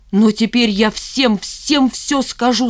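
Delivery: чуть выше обычного, с напором на каждом слове; пообещай горячо, растягивая слова; горячее обещание. Acted. (взволнованно и решительно)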